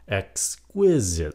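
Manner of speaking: EXQUISITE slowly, as ex-QUIS-ite; stress on second syllable. Shown as a demonstration. Teacher repeats the modern reading, slow ex-QUIS-ite. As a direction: stretch and hit the QUIS in EXQUISITE. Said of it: "nhấn âm hai".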